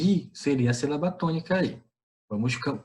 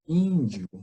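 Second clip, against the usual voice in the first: "Índio" with the stress on a raised "Ín"; chamando a palavra; 3 semitones higher than usual. Shown as a demonstration. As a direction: call "Índio", leaning on its first syllable. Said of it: "Vamos chamá-la". ("Índio" com tônica no "Ín")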